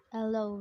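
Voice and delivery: HELLO said without the H; dropped H. Shown as a demonstration. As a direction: drop the opening H of HELLO, starting on the vowel. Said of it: "without speaking the H sound".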